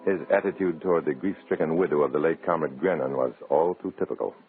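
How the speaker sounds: dry, wry noir narrator voice; story narration. A narrator's reading. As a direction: tell it like a hard-boiled narrator.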